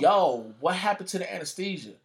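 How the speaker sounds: calling out to the nurse, startled and loud; alarmed outcry. Retold or imitated. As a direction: yell it at the nurse in disbelief. Confronting nurse on operating table.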